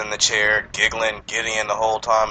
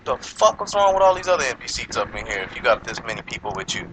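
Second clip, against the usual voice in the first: higher-pitched retold rant; indignant retort; 4 semitones higher, 3 dB louder than usual. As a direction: play up the mock outrage at the kid. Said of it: "I'm looking at him like".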